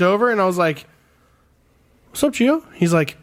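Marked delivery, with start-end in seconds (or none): 2.1-2.6 high, starstruck hello; excited greeting. Retold or imitated. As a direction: greet your hero with a jump in pitch.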